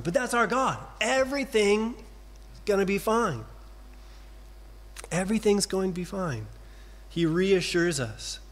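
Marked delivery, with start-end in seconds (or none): 1.0-6.5 higher, ringing promise of certainty; emphatic declaration. Acted. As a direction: proclaim it boldly to the congregation. Preacher declares God's promise.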